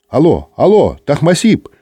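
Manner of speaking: lightly excited female operator; slightly agitated woman. A narrator's reading. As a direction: call back with a flutter of excitement. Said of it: "Женский голос стал немножко взволнованным".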